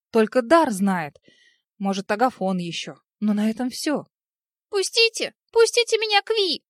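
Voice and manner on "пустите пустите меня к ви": put-on high, loud desperate child voice; a small boy screaming to get in; scared little prince shouting; child's cry. A narrator's reading. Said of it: "услышав крик Альфи".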